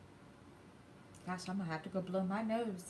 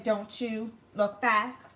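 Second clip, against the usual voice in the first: slow, firm and a bit louder; firm, slow command; 3 semitones higher, 6 dB louder, much slower than usual. Retold or imitated. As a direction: spell it out slowly, firmly, with weight on "back". Retold firm order to daughter.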